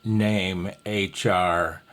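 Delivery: slow, spaced call without is; slow example phrase. Shown as a demonstration. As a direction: say the short call slowly. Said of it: "Or if you don't use the is".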